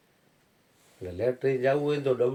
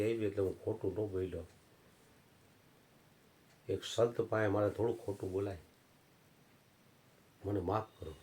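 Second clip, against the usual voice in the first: soft, hushed plea for forgiveness; meek apology; 3 semitones lower, 7 dB quieter than usual. Acted. Old man begging the saint's forgiveness, soft and meek. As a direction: beg pardon quietly.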